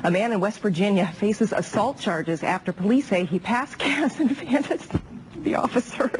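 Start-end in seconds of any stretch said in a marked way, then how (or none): 3.9-6.1 holding back giggles, slowed; fighting laughter through the words; trying not to laugh. Real, not acted. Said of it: "don't laugh".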